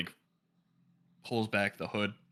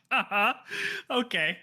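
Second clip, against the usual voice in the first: doubtful okay, pitched up; higher, skeptical uh-huh; 8 semitones higher than usual. Acted. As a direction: sound unconvinced. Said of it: "eyebrows raised, like".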